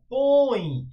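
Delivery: long, slow nasal õe in "põe"; nasalized õe. Shown as a demonstration. Teacher pointing out nasal pronunciation, drawn-out õe in "põe". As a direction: stretch "põe" through the nose. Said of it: "Percebe como é nasalada a pronúncia".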